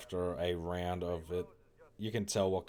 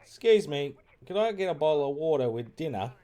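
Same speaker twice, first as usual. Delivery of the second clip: high, loud mock British "Excuse me, could I get a bottle of water"; hammed-up British accent; 8 semitones higher, 9 dB louder than usual. Shown as a demonstration. Streamer ordering water in an exaggerated British accent, loud. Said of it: "I full on say".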